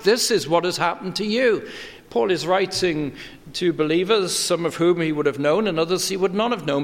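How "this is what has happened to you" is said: "This is what has happened to you" with the weight on "you" and a falling close; stress on you. Retold or imitated. Preacher quoting Paul to believers, stressing "you". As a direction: drive the word "you" home to the listener. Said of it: "He's very emphatic".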